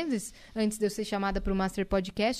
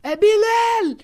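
high, loud exclamation of the name; dad's loud correction; 10 semitones higher, 10 dB louder, much slower than usual. Retold or imitated. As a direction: shout the correction like an exasperated dad. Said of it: "Meu pai falou". ("É Bilal!" gritado bem alto e agudo)

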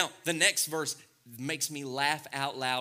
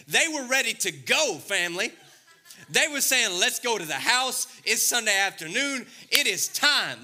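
higher and louder, hyped up and grinning; playful preacher hype; excited; 5 semitones higher, 4 dB louder than usual. Acted. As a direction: sell the joke with big energy. Preacher hyping a bold joke.

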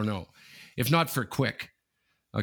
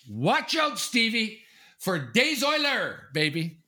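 much higher, excited cheer; hyped fan; 11 semitones higher, slower than usual. Real, not acted. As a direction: hype up his team's cup run. Fan hyping his team.

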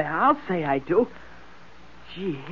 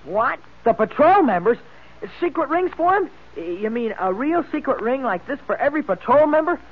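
put-on excited boy; 5 semitones higher than usual. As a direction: gasp it out in boyish delight. Junior amazed at ring news.

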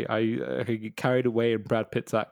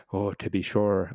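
slow, lower mock-Irish delivery; drawn-out, badly faked Irish accent; 4 semitones lower than usual. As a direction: imitate an actor's terrible Irish accent. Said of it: "Like Christopher Walken going".

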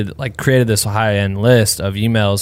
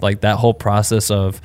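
congested. Real, not acted. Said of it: "I sound so sick and congested".

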